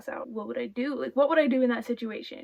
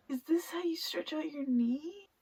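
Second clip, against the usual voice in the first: whispering; 4 semitones higher, 5 dB quieter than usual. Real, not acted. Whispering worried.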